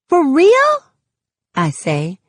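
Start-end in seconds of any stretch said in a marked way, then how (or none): 0.1-0.7 surprised. Acted. Starr stunned by the new job.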